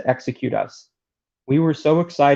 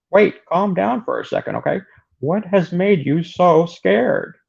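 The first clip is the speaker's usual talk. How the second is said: character voice; 5 semitones higher than usual. Acted. Reading Kent's tract dialogue.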